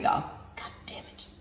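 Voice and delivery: slow whispered swear; soft slow breathy curse. Real, not acted. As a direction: hiss it under the breath slowly. Cursing after a waste.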